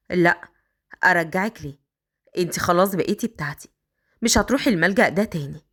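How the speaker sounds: put-on a man coaxing the girl upstairs.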